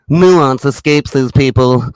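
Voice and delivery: slow, drawn-out smug imitation; slow sneering impression of a smug man; smug mock voice. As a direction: mimic a smug pundit savouring each word. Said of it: "Listen to this smug fuck".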